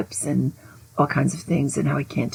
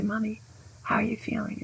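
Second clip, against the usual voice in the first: put-on child's timid question; 5 semitones higher, 11 dB quieter than usual. Little John asks his mother.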